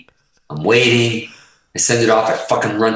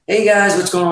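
higher-pitched, easygoing hello imitating him; pleasant greeting; 8 semitones higher than usual. Booking agent greets the band in the dressing room, pleasant. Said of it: "he's usually very pleasant".

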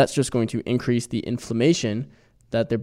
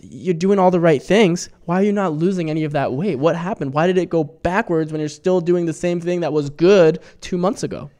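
higher, louder, imitating someone incredulous; mock bewilderment, pitched up; baffled questioning; 5 semitones higher, 4 dB louder than usual. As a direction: voice the exasperated questions of a puzzled dieter. Voicing people baffled by regained weight.

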